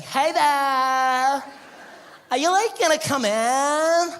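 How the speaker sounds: put-on high, loud, drawn-out beach-girl gush; California babe. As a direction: play a gushing surfer girl. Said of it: "California babe".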